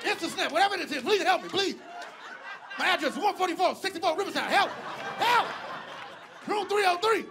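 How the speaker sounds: high-pitched mock distress call; hammed-up desperate cry for help; pleading for help. Patient begs viewers for help.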